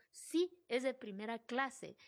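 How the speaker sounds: slow, steady confirmation; calm firm reply. Retold or imitated. To the ladies at the first class line, calmly firm. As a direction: answer politely but firmly, taking time. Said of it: "Y yo".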